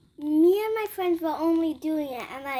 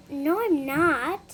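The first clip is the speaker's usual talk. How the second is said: imitating a sassy classmate, drawn out slowly; slow, mock-sassy refusal; slower than usual. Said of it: "Being sassy at, at, at all of us".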